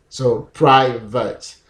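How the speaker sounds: private said slowly; word demo. Shown as a demonstration. Teacher repeating private slowly for the class. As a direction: model private carefully. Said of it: "optional pronunciation".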